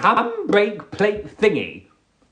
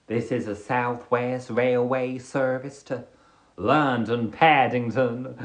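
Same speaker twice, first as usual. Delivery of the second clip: cowboy voice. Acted. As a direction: read the train announcement as a cowboy, swelling to a hollered send-off. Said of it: "say the train announcement in the cowboy voice".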